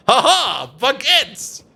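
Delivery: hammed-up gleeful exclamation; mock French cheer. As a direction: playfully blurt it out. Joking about speaking French.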